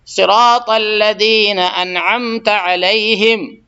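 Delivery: slow, drawn-out chanted recitation; Quran recitation. Shown as a demonstration. Teacher reciting Fatiha verse for students, slow chant. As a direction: recite each word slowly and clearly.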